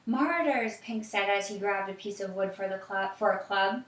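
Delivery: put-on reading aloud to a child, evenly; story narration. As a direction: tell the story calmly.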